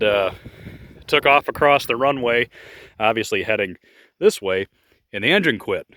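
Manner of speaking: ordinary talk, nothing marked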